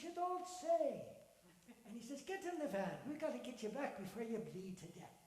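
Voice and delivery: cheery Irish-tinged man; lightly Irish old man. Acted. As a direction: marvel at the lad's luck. Voices Donald.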